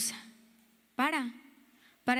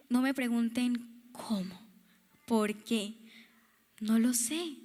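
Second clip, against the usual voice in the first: a hushed plea not to ask; whispered aside; 2 semitones lower, slower than usual. Real, not acted. Preacher confiding to listeners about her tears, whispered.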